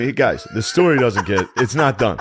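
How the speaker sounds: ordinary talk, nothing marked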